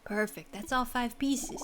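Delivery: drawn-out New York delivery; New York accent. Acted. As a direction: voice the game character as a New Yorker. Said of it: "I'm giving a New York accent".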